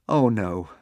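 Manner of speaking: a touch of tearful panic, rising high on the second oh no; boy mildly weeping as danger nears; weeping Hiccup. Acted. Hiccup hearing the dragon close in, mildly tearful. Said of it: "wept Hiccup".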